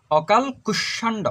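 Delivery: "অকাল কুষ্মাণ্ড" with a closed ল, no vowel after it; careful pronunciation. Shown as a demonstration. Teacher repeats the word after explaining its spelling, careful pronunciation of "অকাল কুষ্মাণ্ড". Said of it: "লর মধ্যে হসন্ত হবে".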